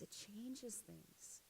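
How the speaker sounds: slow, near-whispered preaching; hushed emphasis. Real, not acted. Preacher closing a message on kindness, hushed and slow.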